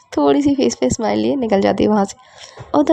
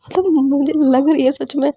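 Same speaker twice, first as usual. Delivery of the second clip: slow, higher-pitched giggly complaint; laughing through pain; 4 semitones higher, slower than usual. Acted. Partner squeezed in a hug, laughing protest. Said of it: "तो आप हंस क्यों रहे हो".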